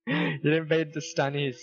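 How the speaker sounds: laughing. Real, not acted. Teasing friend while laughing.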